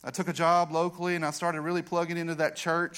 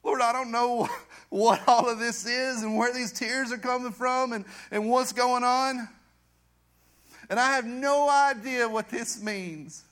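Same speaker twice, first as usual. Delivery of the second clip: raised, drawn-out plea to God; impassioned retold prayer; 5 semitones higher, 3 dB louder than usual. Man retelling his surrender to God, impassioned prayer. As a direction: cry out to the Lord, retelling it.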